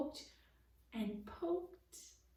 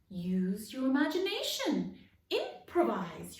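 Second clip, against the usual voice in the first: shouted; 4 semitones higher, 6 dB louder than usual. A narrator's reading. Frog actor shouting back on his way out, loud. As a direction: boom it from the doorway. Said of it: "Euripides shouted".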